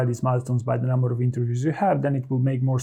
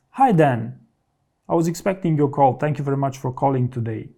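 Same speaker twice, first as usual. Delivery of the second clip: polite greeting. Shown as a demonstration. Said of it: "And then you would say".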